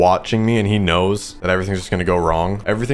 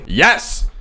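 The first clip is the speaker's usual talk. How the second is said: higher, punchy mock-emphatic yes; 7 semitones higher than usual. Player answering whether they have the money, mock emphatic. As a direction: insist with a playful burst. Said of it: "I've said emphatically".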